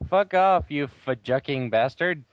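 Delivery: loud, high hammed-up outburst; angry shout. Reading fanfic aloud, heroine swears at Hargrid in mock rage. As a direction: bellow the insult with mock fury. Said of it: "I shouted angrily".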